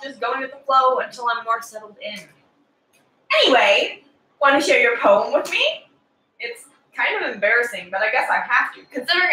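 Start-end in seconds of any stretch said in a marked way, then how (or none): 3.4-5.8 cheery, forward class president voice; bubbly overeager schoolgirl; preppy girl. Acted. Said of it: "Preppy Girl on cocaine".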